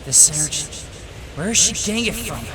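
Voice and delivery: high, loud, startled inner thought; alarmed disbelief. Acted. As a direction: pitch leaping up in alarm. Attacker alarmed by rising energy.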